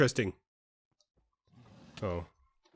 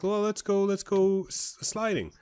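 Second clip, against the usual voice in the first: imitating an eager child, higher pitched; mock eager kid; 8 semitones higher, slower than usual. Retelling her and her cousin's sledding idea, mock eager kid. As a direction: pitch it up like an excited ten-year-old. Kids' eager Christmas plan retold.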